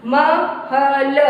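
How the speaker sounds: महल slowly, each letter held; sounded out. Shown as a demonstration. Teacher finishing pronunciation practice on महल, slowly sounded out. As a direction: stretch म, ह, ल apart. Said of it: "उच्चारण करके पढ़ना हो गया".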